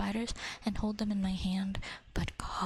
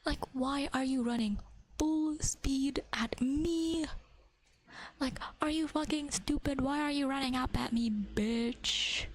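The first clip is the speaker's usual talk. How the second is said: higher, incredulous scolding of a bug; exasperated at the bug; 4 semitones higher, slower than usual. Retold or imitated. Ranting at the cockroach that ran at her foot, exasperated. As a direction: scold the cockroach like it's stupid.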